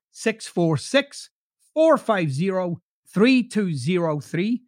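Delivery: "six four six, four five zero, three two zero three" spelled out slowly; slow repeat. Shown as a demonstration. Host repeating the phone number for listeners, slowly. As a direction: read the number back slowly so they can write it. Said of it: "repeats phone number slowly".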